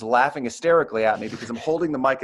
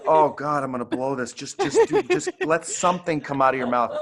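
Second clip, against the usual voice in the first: panicked self-talk; 2 semitones higher than usual. Retold or imitated. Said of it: "And I'm like".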